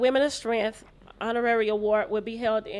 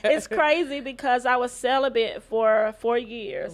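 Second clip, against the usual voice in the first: laughing; 3 semitones higher, 7 dB louder than usual. Real, not acted. Guest still laughing after answer.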